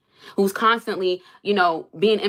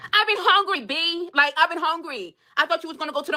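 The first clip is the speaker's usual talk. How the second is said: exasperated complaint; 9 semitones higher than usual. Real, not acted. Angry rant at husband.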